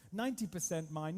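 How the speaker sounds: "Ninety" lengthened and hit hard; stress on ninety. Shown as a demonstration. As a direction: lean on "Ninety percent" to correct. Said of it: "not a hundred".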